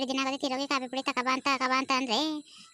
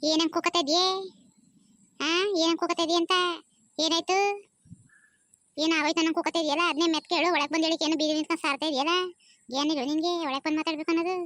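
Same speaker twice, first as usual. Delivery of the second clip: mildly raised, irritated retort; annoyed scolding; 3 semitones higher, 3 dB louder than usual. Acted. Wife tells husband off for shouting from the street, annoyed scolding. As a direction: scold back with a touch of exasperation.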